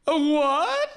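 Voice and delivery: high, loud mock-bewildered a what; fat guy yelling. Fat guy to Dreyfuss, loud high confused yell. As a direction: bark it out, baffled. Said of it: "the fat guy goes".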